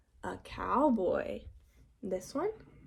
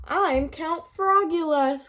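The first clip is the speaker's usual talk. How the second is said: higher, louder grand vampire intro; dramatic vampire announcement; 6 semitones higher, 4 dB louder than usual. A narrator's reading. Froggy in costume, grandly announcing himself. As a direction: declare it like a proud little Dracula. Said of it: "cried Froggy".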